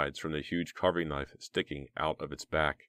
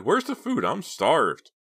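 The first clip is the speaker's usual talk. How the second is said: eager; 10 semitones higher, 5 dB louder, slower than usual. A narrator's reading. Hungry prankster.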